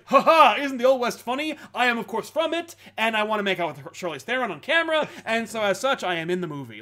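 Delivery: lightly voiced smug filmmaker, starting loud and high; hammed-up fake chuckle into a self-satisfied mock speech; mocking Seth MacFarlane. Podcaster mocking a director casting himself, smug imitation. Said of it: "he's just like".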